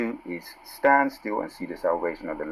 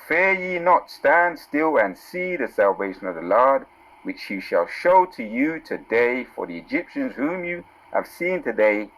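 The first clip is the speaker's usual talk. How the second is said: scripture reading. Acted. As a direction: proclaim the verse to the congregation. Reads scripture with emphasis.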